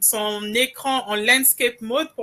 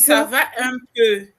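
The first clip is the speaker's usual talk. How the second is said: lightly done Brazzaville Congolese accent, a touch louder; Congo-Brazzaville accent showing how locals greet; 3 dB louder than usual. Shown as a demonstration. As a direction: give the phrase a Congolese Brazza accent, drawing out the vowels. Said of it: "je vais te dire avec l'accent congolais de Brazza".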